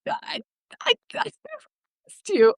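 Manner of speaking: retold stammered denial.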